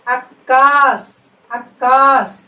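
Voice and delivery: అక్కాస్ slow with క్క held and pressed; అక్కాస్ with a long, firm double క్క; pressed double letter. Shown as a demonstration. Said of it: "నొక్కి పలకాలి".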